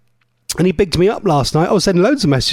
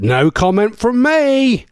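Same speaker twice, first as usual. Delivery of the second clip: slow, higher-pitched playful dodge; mock diplomatic; 5 semitones higher, slower than usual. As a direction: draw it out with mock innocence. Mock-diplomatic reply to marriage joke.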